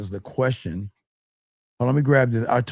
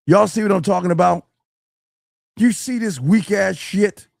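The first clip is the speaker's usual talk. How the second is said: exasperated; 8 semitones higher, 3 dB louder than usual. Real, not acted. Coach repeats it, more worked up.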